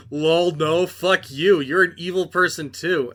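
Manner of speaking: mocking laughing brush-off. Ryan laughing off Butcher's offer to be family, mocking scorn. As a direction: laugh him off with a jeering no. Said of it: "And Ryan's like".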